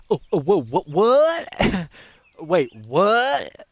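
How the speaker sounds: high, loud, flustered what; shocked disbelief. Pretend. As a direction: panic with a laugh. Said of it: "I would have been like".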